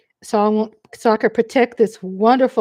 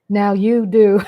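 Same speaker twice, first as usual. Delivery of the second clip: louder, laughing through it; laughing shout; 2 semitones lower, 7 dB louder than usual. Real, not acted. Telling viewers they know her now, laughing. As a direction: blurt it out with a laugh.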